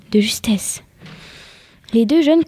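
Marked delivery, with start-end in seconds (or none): 0.1-0.8 breathed out. A narrator's reading. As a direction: murmur it as a narrow escape. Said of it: "souffla Johnny".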